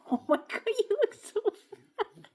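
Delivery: put-on high squeaky baby talk to the pet. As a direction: coo at the dog like a baby.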